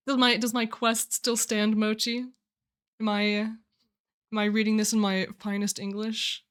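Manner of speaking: mock-refined English, projected; sounding fancy. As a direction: put on your finest English, a touch posh. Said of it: "That was just me sounding fancy".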